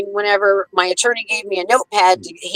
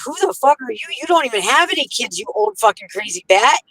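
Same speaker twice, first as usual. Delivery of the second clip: pitched-up retold outrage at the guardian; mock tirade; 3 semitones higher than usual. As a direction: raise the pitch and rant as if back in court.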